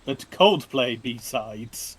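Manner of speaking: very slow. Pretend. Mock-dramatic slow delivery.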